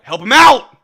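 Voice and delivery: shouting at the screen; urgent shout. Real, not acted. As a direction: yell for the teammate to help. Urging player during tense play.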